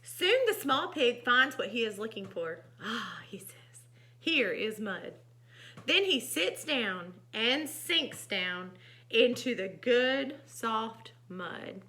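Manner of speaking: unhurried, expressive storybook reading; gentle storytime delivery; story narration. A narrator's reading. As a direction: read to children, spacing out the last words. Reads picture book aloud.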